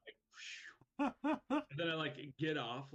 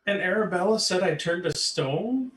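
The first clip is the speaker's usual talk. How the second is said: shouted, pitched-up disbelief; loud disbelief; 7 semitones higher, 14 dB louder than usual. Real, not acted. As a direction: yell it in shock. Shocked outburst at the table.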